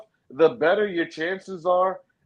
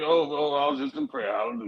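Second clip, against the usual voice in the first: high, innocent mock-pious voice; playing innocent, caught napping; fake innocent; 8 semitones higher, faster than usual. Caught napping, fakes being at prayer.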